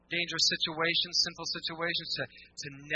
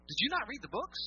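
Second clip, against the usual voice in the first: laughing jab; 8 semitones higher, 5 dB quieter than usual. Real, not acted.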